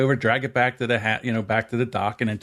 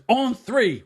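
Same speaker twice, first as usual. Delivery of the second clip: raised call; 12 semitones higher than usual. Retold or imitated. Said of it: "He goes".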